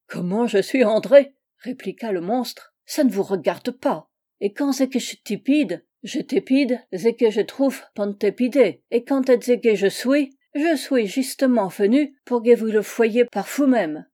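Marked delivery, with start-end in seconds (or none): 0.1-1.3 put-on loud German-accented retort; indignant accented monster. Monster answering its unwilling host, indignant creature. 2.8-14.1 put-on loud, mangled German-accented French; blustering accented monster. Monster rebuffing the host's questions, blustering creature.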